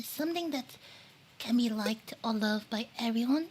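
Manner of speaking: eating while talking; talking through a mouthful; mouth full. Real, not acted. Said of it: "The eating is making the stream lag".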